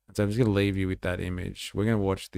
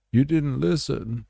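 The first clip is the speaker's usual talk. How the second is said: higher, louder "didn't" punched as a scolding; mock shout; 7 semitones higher, 5 dB louder than usual. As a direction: bark the taunt out loud. Repeated taunt, shouted.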